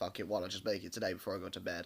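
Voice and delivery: giving up, shrugging off, low, quick, soft mutter.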